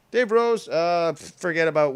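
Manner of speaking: mock fan.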